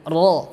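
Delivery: "ro" with a vibrating tongue-tip r; trilled ro. Shown as a demonstration. Teacher shows students the letter ro, "ro" trilled on the palate. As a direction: roll the r of "ro" against the palate, rounded vowel.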